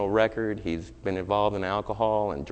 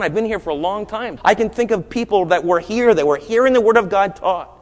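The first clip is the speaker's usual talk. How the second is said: high, loud, driving sermon voice; preaching at full force; 7 semitones higher, 6 dB louder than usual. Acted. Preacher warning his church, at full force. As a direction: hammer it home to the congregation.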